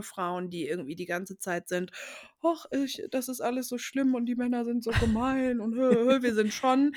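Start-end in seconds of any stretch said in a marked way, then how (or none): 2.4-6.2 whiny self-pitying moan, mocking; hammed-up whining, higher.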